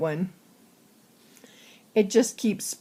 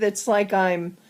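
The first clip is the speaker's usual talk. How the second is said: ordinary delivery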